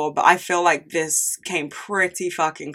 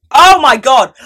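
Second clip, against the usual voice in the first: sudden excitement; 8 semitones higher, 12 dB louder, slower than usual. Real, not acted. Sudden remembered topic outburst.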